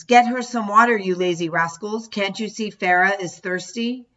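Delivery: mother scolding siblings; mother yelling. Retold or imitated. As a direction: bark orders at lazy kids. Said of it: "She started yelling at my siblings".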